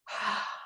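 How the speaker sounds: soft acted sigh; small sigh before giving in; retold sigh. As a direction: let out a quiet breath, re-enacting the moment. Reaction to father's offer, retold.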